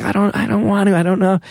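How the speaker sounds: put-on high-pitched, pleading kid's reply; helpless kid brother. Bullied boy answering his dad, helpless and high-pitched. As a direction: imitate a cornered little brother.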